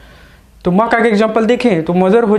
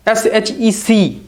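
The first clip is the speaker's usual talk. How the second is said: slow letter spelling; much slower than usual. Shown as a demonstration. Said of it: "फिर अगर दूसरा देखें तो सी".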